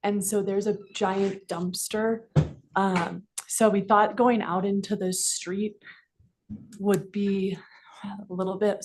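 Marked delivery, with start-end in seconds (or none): 2.8-8.8 slightly winded, catching breath. Real, not acted. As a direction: talk while out of breath. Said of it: "sorry, I'm a little out of breath".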